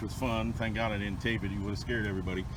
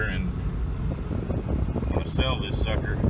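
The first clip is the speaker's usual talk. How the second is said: talking over a rumbling tractor; tractor noise behind; 3 dB louder, slower than usual. Real, not acted. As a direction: speak with a tractor running nearby. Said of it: "Sorry about the tractor noise in the background".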